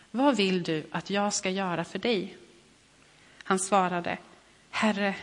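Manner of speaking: measured reading of a Bible passage; scripture reading. Acted. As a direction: read the gospel story aloud, steady and clear. Reads the gospel passage aloud.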